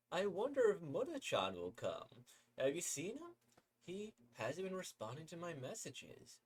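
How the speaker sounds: put-on chirpy girl inviting a friend; high sweet girl asking eagerly; cheerful girl voice.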